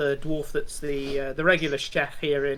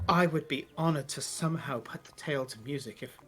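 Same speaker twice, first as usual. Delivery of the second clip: classical bard; 6 dB quieter than usual. Acted. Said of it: "a very classical bard, uh, and says".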